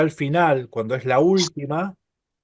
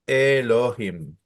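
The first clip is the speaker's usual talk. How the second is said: slow Elohim, each syllable separate, stress on "him"; accent on the last syllable; slower than usual. Shown as a demonstration. Teacher showing where the accent falls, slow final-stressed Elohim. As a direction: draw out Elohim towards its accented ending. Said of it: "tenemos el acento".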